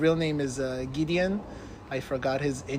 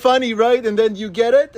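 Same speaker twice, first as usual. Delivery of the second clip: pushy prankster; 6 semitones higher, 7 dB louder than usual. Retold or imitated. Prankster pressing the stranger.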